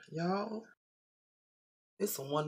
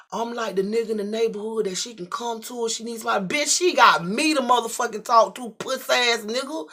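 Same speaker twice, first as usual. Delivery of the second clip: climbs louder and much higher to a yell; furious yell building to the end; building rage; 6 semitones higher, 7 dB louder than usual. Retold or imitated. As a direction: explode by the last line. Escalating rant.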